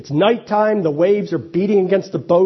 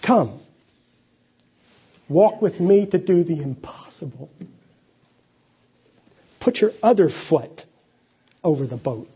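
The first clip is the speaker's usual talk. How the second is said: gentle calling out. Acted. Jesus calling to a frightened fisherman, gentle and inviting. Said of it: "calling out to a frightened fisherman".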